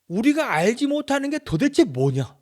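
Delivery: high, loud accusing question; indignant challenge. Acted. Eliphaz confronting Job over wisdom, indignant challenge.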